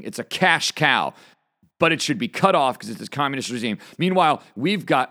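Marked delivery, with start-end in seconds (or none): 4.0-5.1 worked-up, hurried start that breaks off; rushed, tripping over words. Real, not acted. Fired-up host outrunning his own words, rushed. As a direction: rush it and stumble to a halt. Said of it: "can't even get the words out".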